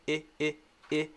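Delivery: quick quiet "I" with the jaw out; short I vowel. Shown as a demonstration. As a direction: push the jaw out on "I". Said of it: "the jaw out a little bit".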